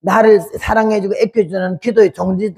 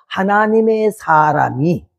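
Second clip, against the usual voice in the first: servants' humble words; 2 semitones lower, slower than usual. Retold or imitated. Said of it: "이 사람들 입에서".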